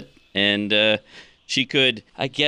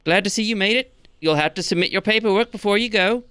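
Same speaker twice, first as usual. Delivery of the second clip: high-pitched skeleton gatekeeper; Pink the skeleton; 7 semitones higher than usual. Acted. Skeleton checks the returning party's book, high character voice. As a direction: greet them in a higher character voice. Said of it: "Pink the skeleton. And he says".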